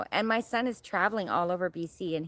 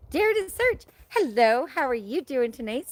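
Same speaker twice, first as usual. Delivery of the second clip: excited greeting; 5 semitones higher, 5 dB louder than usual. Real, not acted. Welcoming a new viewer.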